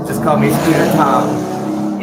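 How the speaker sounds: loud, slow, drawn-out introduction; telling people his nickname, loud and slow; proud announcement. Retold or imitated. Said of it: "So I was telling people".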